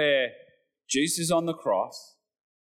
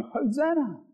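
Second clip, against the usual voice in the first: crowd cheering; 4 semitones higher than usual. Retold or imitated. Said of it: "the crowd were going".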